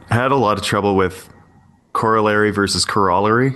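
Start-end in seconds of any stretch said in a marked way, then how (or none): 1.9-2.5 "corollary" as KOR-uh-lair-ee; American pronunciation. Shown as a demonstration. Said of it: "American is corollary". 2.8-3.5 "corollary" as kuh-ROL-uh-ree; UK pronunciation. Shown as a demonstration. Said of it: "corollary is U K English".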